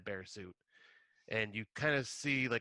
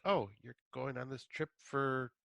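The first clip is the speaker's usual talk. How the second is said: halting, acted feigned nonchalance; mock taken aback; 3 semitones higher than usual. Partner hearing of the Sweden trip, taken aback. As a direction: act out a put-out partner taking in news. Acting out hurt reaction to trip.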